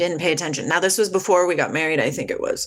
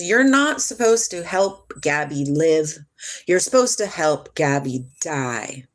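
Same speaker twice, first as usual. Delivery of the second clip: otherworldly voice; slower than usual. Retold or imitated. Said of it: "a voice comes into my space".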